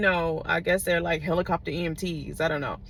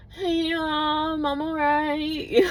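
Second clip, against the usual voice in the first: slow, weak, teary hammed-up voice; feeble injured reassurance; 8 semitones higher, much slower than usual. Lying bloody in the ambulance, telling mom she's fine in a weak teary voice. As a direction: play the hurt kid croaking that all is fine.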